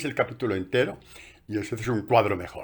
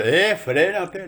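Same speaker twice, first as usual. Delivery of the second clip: stern halt; 9 semitones higher, 6 dB louder, much slower than usual. Retold or imitated. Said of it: "le dice Dios".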